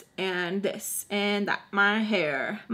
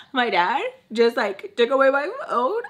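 high, mock-tearful complaint; gasp, then wail it lightly, pitched up; imitated tearful upset; 4 semitones higher, 4 dB louder than usual. Friend explains her dad took the phone, imitated crying. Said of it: "she's, like, crying".

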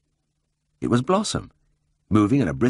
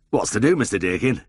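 bewildered cry; 4 semitones higher than usual. A narrator's reading. Drover baffled that the farmer keeps the cow. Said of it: "the drover cried in bewilderment".

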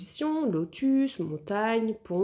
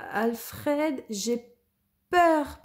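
panicking; 6 semitones higher, much slower than usual. Acted. Lou stuck at the top of the tree, panicked cry. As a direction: cry out in fright. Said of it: "paniqua-t-il".

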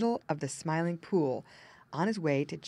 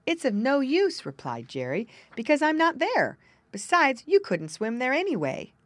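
higher, louder little muskrat voice, matter-of-fact; muskrat's gloomy voice; 6 semitones higher, 6 dB louder than usual. Acted. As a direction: play a small gloomy muskrat. Narrator voices Jerry Muskrat.

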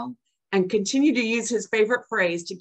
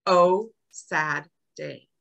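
slow, drawn-out mock lament; grandson's sad saying; 4 semitones lower, much slower than usual. Grandma quoting her grandson's catchphrase, slow mock-mournful. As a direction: stretch it out like a sulky toddler. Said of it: "His favorite saying?".

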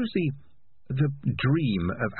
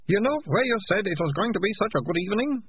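panting after a run; out of breath; 13 semitones higher than usual. A narrator's reading. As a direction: gasp the words out, winded. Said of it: "leaning against it and panting".

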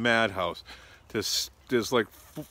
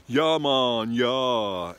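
louder, higher mock cheer; crowd cheering; 4 semitones higher, 7 dB louder, much slower than usual. Tourists answering the driver, mock cheer. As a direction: shout it back like a happy tourist crowd. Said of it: "everybody's like".

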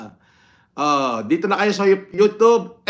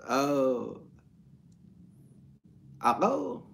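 ordinary talk, nothing marked

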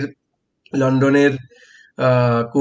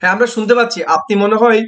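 loud and high over a bad line; raised voice; 6 semitones higher, 4 dB louder, faster than usual. Real, not acted. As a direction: project over the echo. Talking over echoing line.

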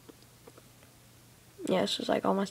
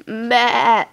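sheep voice; 2 semitones higher, 6 dB louder than usual. Pretend. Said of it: "so I don't have to do my terrible voice".

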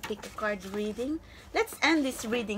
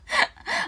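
high breathy laugh; 7 dB louder than usual. Real, not acted. Laughing at herself.

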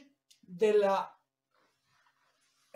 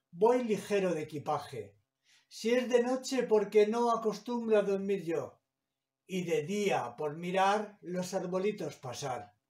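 measured reading of verse, line by line; poem recitation. Acted. Teacher reading Machado's train poem to students, measured recitation. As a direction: recite the poem, letting each line end fall.

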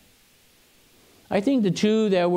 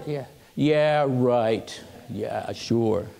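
lower, dismissive disbelief; drawn-down, unconvinced brush-off; sceptical; 6 semitones lower, much slower than usual. Retold or imitated. Claire doubting the tale of the bat rescue, sceptical.

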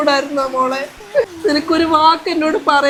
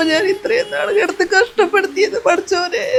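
laughing through tears; 3 semitones higher, 4 dB quieter than usual. Acted. Mother weeps over daughter-in-law.

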